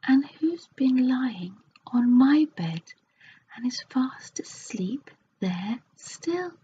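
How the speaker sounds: a small bear, puzzled and slow; Baby Bear voice. Acted. Baby Bear wondering who sleeps in his cot, high and slow. Baby Bear's line in story.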